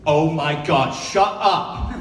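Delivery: lightly exaggerated mom impression; a hint of brash mom from Fontana; mom's storytelling voice. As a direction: tell it like the colorful-mouthed mom. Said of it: "how my mom would tell you".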